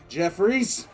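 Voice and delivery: calls rising to a loud high yell; urgent shout for a comrade; calling out. Acted. Calling comrade before blast.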